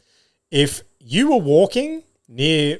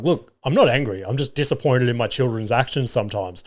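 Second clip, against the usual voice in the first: lightly acted reasonable dad; mock measured explanation. Dad imagines justifying himself to the parents, mock measured. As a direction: explain yourself with mild, contained exasperation. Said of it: "so I just wanted to be like".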